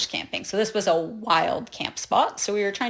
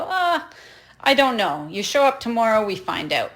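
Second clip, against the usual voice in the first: casual bus clerk shrug; 3 semitones higher than usual. Retold or imitated. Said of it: "They go".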